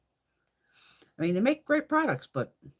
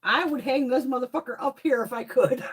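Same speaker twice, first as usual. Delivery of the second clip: laughing; 3 semitones higher, 4 dB louder than usual. Real, not acted. Laughing over her new rug.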